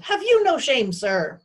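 high, loud scolding yell. A narrator's reading. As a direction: shame him at full voice. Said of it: "the bone yelled".

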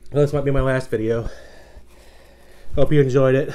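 loud, dramatic last words; loud, mock-tragic sign-off through the burn; half-joking loud farewell. Real, not acted. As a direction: announce your doom with mock gravity. Mock farewell while in pain.

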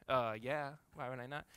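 put-on sassy kid answer. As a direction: shrug it off. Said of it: "the right sassy answer".

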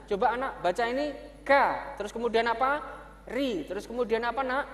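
lightly voiced teacher to pupil; teacher drilling pupil. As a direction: coax and repeat with the child. Teacher drills child garimu.

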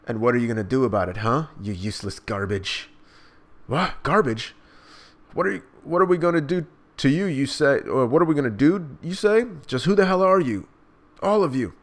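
mock the rebels with a sneer; taunting pirate. Reader voicing a pirate mocking the townsfolk, lightly sneering.

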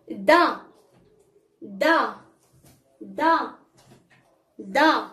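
دا as "da", opened on the "a"; fatha syllable. Shown as a demonstration. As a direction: model دا as one clear syllable "da". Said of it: "غنقول لها".

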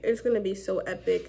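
speaking through fingers; muffled behind hand; hand over mouth. Real, not acted. Seen 3: Fingers held over lips throughout; lowered by +2.6.

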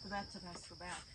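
faint and far off behind wall; muffled through a wall. Real, not acted. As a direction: call through the wall from outside. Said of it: "hear me through the wall".

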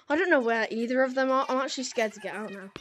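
fast, breathless rush; panting after the escape; out of breath. Real, not acted. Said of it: "I need to catch my breath".

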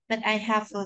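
"But I have a" run together; "bu-tai ha-va", joined without gaps; linked sounds. Shown as a demonstration. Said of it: "những cái nối âm như sau".

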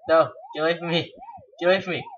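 loud panicky pleading; being chased. Real, not acted. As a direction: shout at the ghost to back off. Ghost closing in on him.

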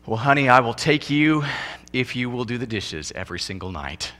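mock groom's demand. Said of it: "they don't get to say".

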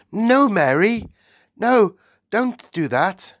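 sharp, loud, high command to the maid. A narrator's reading. Queen sharply stopping her maid. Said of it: "The Queen spoke so sharply".

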